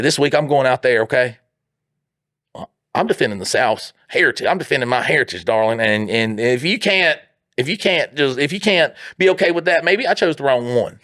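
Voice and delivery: lightly acted self-righteous Southern husband; lightly hammed Southern voice, climbing into wounded protest; Southern reenactor. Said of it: "they would talk like that".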